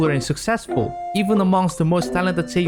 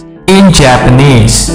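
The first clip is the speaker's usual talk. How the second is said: dramatic shout; 5 semitones lower, 15 dB louder, much slower than usual. Real, not acted. Dramatic reveal of title.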